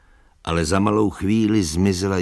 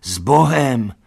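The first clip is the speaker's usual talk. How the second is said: calling farewell; 6 semitones higher, 7 dB louder, slower than usual. A narrator's reading. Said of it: "volali všichni".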